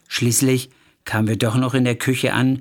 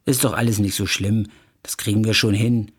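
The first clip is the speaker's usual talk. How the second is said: mildly soothing reassurance; consoling; 3 semitones lower than usual. Acted. Nadja consoling her upset friend, mildly soothing. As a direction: comfort a friend, gently understated. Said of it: "Nadja kam und tröstete mich".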